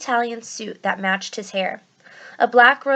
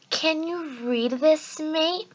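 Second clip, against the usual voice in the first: put-on higher, slow, odd British accent; strange British-ish accent; 7 semitones higher, much slower than usual. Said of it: "He had a strange accent".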